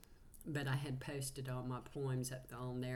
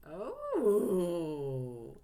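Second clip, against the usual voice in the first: moved cry; 3 semitones higher, 8 dB louder than usual. Real, not acted. Moved reaction to a channeled message.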